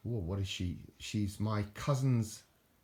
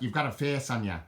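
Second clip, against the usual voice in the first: lightly put-on Irish accent, a little higher; 4 semitones higher than usual. Vlogger quoting an Irish saying about the toy's face, mock Irish accent. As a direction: quote it as the Irish say it. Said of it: "as the Irish people say".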